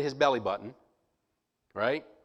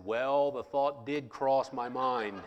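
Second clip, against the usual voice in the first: sheepish laugh; 3 semitones lower, 4 dB quieter, slower than usual. Retold or imitated. Admitting he doubts the doctor.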